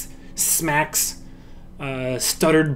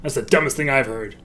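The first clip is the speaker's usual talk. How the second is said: scoffing laugh. Shown as a demonstration. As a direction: bark a laugh, then scoff. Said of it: "How come you're not seeing it in my body".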